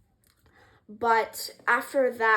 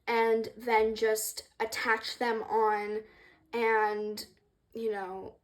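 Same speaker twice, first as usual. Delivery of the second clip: halting, stumbling over words; stuttering; much slower than usual. Real, not acted. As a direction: stammer through it nervously. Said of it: "I'm sorry for my stuttering".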